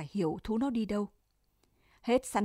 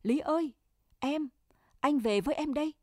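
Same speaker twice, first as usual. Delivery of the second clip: higher, eager calling out to Lý; Trường calling joyfully to Lý; 5 semitones higher than usual. Acted. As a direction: call to her across the field. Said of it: "vừa chạy vừa gọi".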